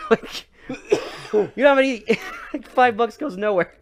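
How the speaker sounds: very high, loud outraged yelling through laughs; outraged shriek. Retold or imitated. Mom shrieking at the cop about five bucks.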